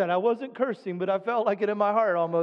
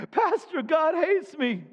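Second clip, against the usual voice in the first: higher, drawn-out playful whine; mock whine to pastor; 4 semitones higher, slower than usual. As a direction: complain to the pastor in a hammed-up sulk. Mocking a complaining believer.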